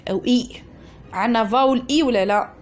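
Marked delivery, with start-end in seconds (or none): 0.3-0.5 "اي" sounded as a long E vowel; letter Y as E. Shown as a demonstration. Teacher showing students how Y is pronounced, "اي" sounded as E. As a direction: give "اي" as the vowel sound of a final Y. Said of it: "بصح النطق كيفاه".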